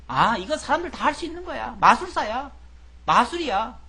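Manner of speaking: high-pitched, lightly acted dismissal; dismissive scoffing. Acting out hardened, dismissive doubters.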